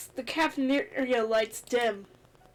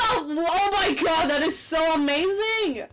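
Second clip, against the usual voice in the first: excited; 2 semitones higher, 4 dB louder, slower than usual. Real, not acted. Gift reaction.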